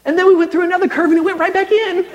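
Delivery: high, laughing through the punchline. Real, not acted. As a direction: giggle it out, cracking up.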